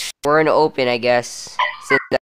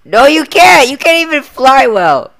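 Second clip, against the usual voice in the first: higher, louder insistent no; loud protest; 9 semitones higher, 6 dB louder than usual. Acted. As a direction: shout him down, you know better. Arguing, shouting over friend.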